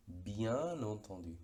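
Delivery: "Bien entendu" said very slowly, N linked into entendu; slow N liaison. Shown as a demonstration. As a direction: drag out "Bien entendu", sounding the N. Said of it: "Fijémonos que bien". ("Bien entendu" muy lento, enlazando la N)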